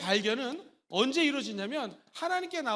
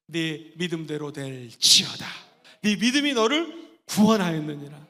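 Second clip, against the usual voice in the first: proclamation; 8 semitones lower than usual. Acted. Preacher proclaims Jesus' words.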